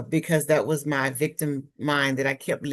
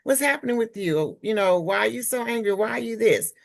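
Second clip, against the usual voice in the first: concerned friend; 6 semitones higher than usual. Retold or imitated. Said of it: "somebody else to say".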